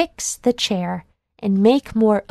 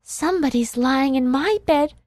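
put-on baby bear crying out; 8 semitones higher, faster than usual. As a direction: build from upset to an alarmed squeal. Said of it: "cried the baby bear".

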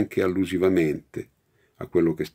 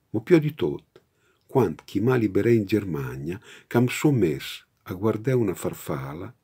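reading a poem in Romagnolo dialect. Shown as a demonstration. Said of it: "poeta romagnolo".

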